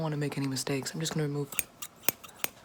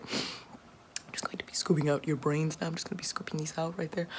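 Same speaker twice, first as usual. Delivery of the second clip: ASMR whisper. Acted. Boss whispering to the listener during the eyeball procedure. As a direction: breathe the words like a close-up ASMR whisper.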